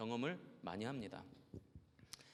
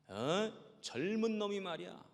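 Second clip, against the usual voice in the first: mock scolding old man; 2 semitones higher than usual. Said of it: "얼마나 야단을 치시는지".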